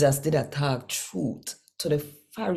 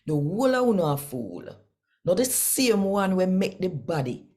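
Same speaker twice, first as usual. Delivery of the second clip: higher, fervent preaching voice as Jesus; raised, rebuking voice of Jesus; Jesus rebuking Pharisees; 4 semitones higher than usual. Acted. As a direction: scold them like a prophet warning.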